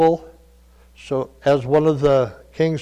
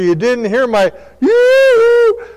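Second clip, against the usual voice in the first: high, slow, loud yoo-hoo voice; God echoing the mother's call, drawn out; 9 semitones higher, 6 dB louder, slower than usual. Retold or imitated. God answering the excuse, slow high mock call. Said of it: "And God will say".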